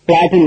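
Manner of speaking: பிளாட் said with the I silent. Shown as a demonstration. Teacher shows students how PLAIT is said, பிளாட் with silent I. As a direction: say பிளாட், leaving the I unsounded. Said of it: "ஐ silent".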